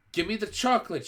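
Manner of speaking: put-on high, loud boy's shout; boy shouting at the witch, high and loud. A narrator's reading. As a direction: yell for the chocolate. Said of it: "shouted the boy".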